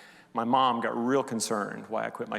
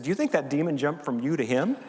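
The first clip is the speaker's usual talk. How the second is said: laughing while quoting. Retold or imitated. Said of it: "she was kidding".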